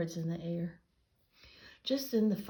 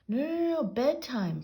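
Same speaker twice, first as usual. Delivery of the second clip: much higher, louder pleading no; frantic protest; 7 semitones higher, 7 dB louder than usual. A narrator's reading. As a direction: stop them in a panic. Arthur tries to stop twins.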